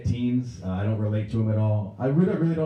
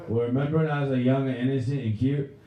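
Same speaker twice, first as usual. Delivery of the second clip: wheedling son; 4 semitones higher than usual. Acted. Drunk son softens up angry dad.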